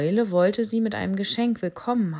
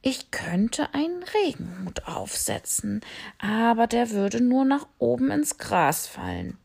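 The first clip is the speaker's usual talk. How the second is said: bat voice; 5 semitones higher than usual. Acted. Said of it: "fügte die Fledermaus hinzu".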